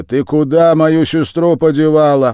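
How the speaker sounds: громко, с гневом; допросить с угрозой; гневный вопрос. A narrator's reading. Брат держит Веряву за ухо. (брат гневно допрашивает Веряву)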